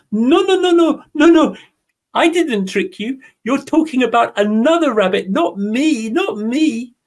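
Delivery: high, pleading little rabbit voice; squeaky rabbit. Acted. Rabbit pleads with the jaguar, high squeaky protest. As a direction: protest fast and squeaky, denying everything.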